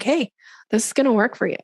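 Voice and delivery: plain, firm promise without hedging; acting someone sure of the solution; assured expert. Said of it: "speaking from that place of credibility".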